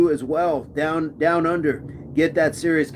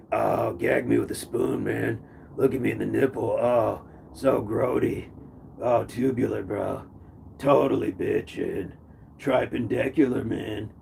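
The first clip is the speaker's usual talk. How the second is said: put-on Valley surfer accent; 4 semitones lower, 5 dB quieter than usual. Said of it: "SoCal accent".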